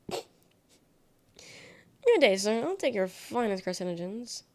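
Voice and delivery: mock posh gent. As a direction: greet him like a pompous toff, tongue in cheek. Mock posh greeting to chat.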